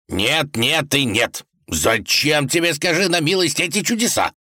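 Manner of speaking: tsar shouting. A narrator's reading. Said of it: "крикнул царь".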